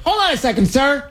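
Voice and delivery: mock indignant disbelief. Host imagines confronting Macron, high incredulous mock protest. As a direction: squeak out an outraged how-dare-you. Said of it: "I would be like".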